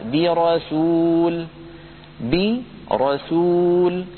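برسول drawn out with a full heavy ra. Shown as a demonstration. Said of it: "مثال على كسرة منفصلة".

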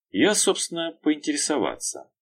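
mild, amiable polite ask; friendly tone. A narrator's reading. Detective politely asks the boss, friendly. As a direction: play innocent and friendly. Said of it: "доброжелательным тоном сказал он".

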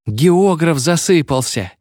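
put-on high, slow squeal of a treble boy; gleeful high-pitched schoolboy; delighted squeak. A narrator's reading. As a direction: squeak it with glee. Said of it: "восхищённо пискнул дискант".

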